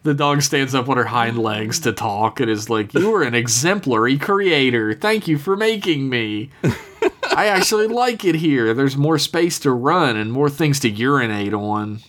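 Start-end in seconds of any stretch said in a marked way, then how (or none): 2.9-12.0 talking dog. Retold or imitated. Talking dog speaks to its creator.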